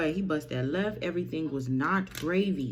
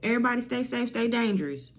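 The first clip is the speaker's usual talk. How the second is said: higher-pitched friend voice; 7 semitones higher, faster than usual. Acted. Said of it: "Is they like".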